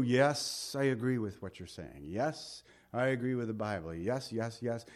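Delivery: a quiet, easy yes-man; soft nodding agreement; half-hearted agreeing churchgoer; mock agreeable listener.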